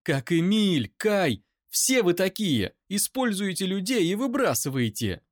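high, loud, near-screaming rage; screaming accusation at the brother's defender; furious scream. Acted. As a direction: hurls every word at him. Eira screams.

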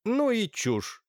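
резкий высокий возглас; фыркни с возмущением. Acted. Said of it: "воскликнула Софья Лукинишна". (высокий пренебрежительный возглас)

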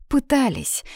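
light, high-pitched sigh on the word. A narrator's reading. Girl admitting they tried expelling her, sighing. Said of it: "вздохнула Соня".

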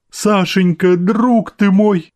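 high, slow cry of joy; mother greeting her son, exclaiming high and slow; joyful exclamation. A narrator's reading. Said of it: "воскликнула Анна Павловна".

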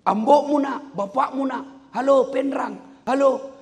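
loud, high shout down the phone; yelling. Retold or imitated. Rich villager on a payphone shouts to his child, yelling. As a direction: holler hello as if the line carries only shouting.

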